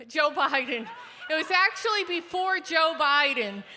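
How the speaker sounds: laughing at own slip. Real, not acted. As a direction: chuckle through the correction. Laughing correction.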